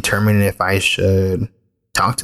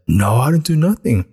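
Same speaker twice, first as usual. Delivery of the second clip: higher-pitched protest, falling at the end; imitated kid's denial; 5 semitones higher than usual. Boy denying to his mom that he shot, mock protest. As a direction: imitate a child protesting innocence. Kid denying the shooting, retold.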